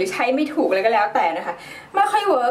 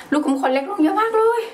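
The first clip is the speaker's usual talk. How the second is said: real excitement, said high and bright; excited; 10 semitones higher than usual. Real, not acted. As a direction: pitch jumps up high with delight. Thrilled at laser results.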